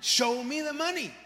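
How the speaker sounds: slow, emphatic repeat of the movie line; Jerry Maguire quote again. Retold or imitated. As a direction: press the line home to the crowd. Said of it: "Jerry Maguire".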